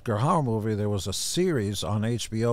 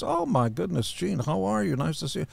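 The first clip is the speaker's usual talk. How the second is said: high, lightly voiced woman's voice; a raised, light imitation of a sick woman greeting a friend; imitating Suzanne; 9 semitones higher than usual. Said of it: "She goes".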